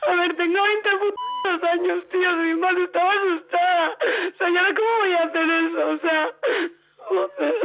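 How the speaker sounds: upset, close to crying; real tearful. Real, not acted. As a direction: near tears, frustrated. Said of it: "¿Cómo se me pone usted a llorar así?". (llorosa de verdad)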